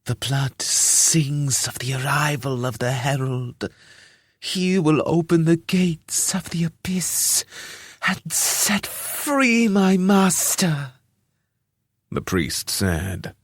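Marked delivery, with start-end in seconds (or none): 0.0-10.9 rising in ecstatic bliss. Acted. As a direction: voice climbing higher into a rapturous whisper. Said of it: "His voice rose in pitch as though he were experiencing bliss".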